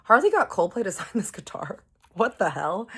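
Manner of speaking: high, loud disbelief; astonished outburst. Retold or imitated. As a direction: exclaim it as if you can't believe it. Astonished at a band-signed guitar.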